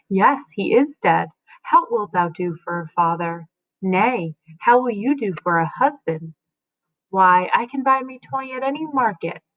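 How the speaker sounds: reading Shakespeare aloud, lightly voicing mother and son; dramatic reading. Teacher reads Lady Macduff and her son to the class, lightly voiced. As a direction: read the play scene with gentle expression.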